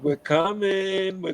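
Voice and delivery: slow, drawn-out taunting sing-song; mock taunt. Teasing the other team with a slow mock threat. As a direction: stretch it out to spook them. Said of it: "I used to taunt people a lot".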